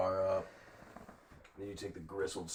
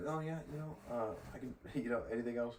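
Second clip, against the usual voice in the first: higher, softer, faltering waitress; imitated hesitant server; 4 semitones higher, 4 dB quieter, faster than usual. Server coping with an odd customer, imitated high hesitance. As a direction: lightly mimic a server trying to move on. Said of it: "she's trying to be like".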